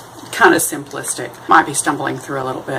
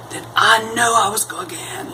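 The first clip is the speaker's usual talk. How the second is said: whisper; 6 semitones higher than usual. Real, not acted. Fancying a past life.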